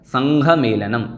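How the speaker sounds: संघ said slowly with a clear aspirated घ, not संख; careful pronunciation. Shown as a demonstration. Teacher slowly showing students how to say संघ. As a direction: spell out संघ मेलनम slowly, with the nasal ङ leading into घ. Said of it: "ङा है और ङा में घ मिला हुआ है".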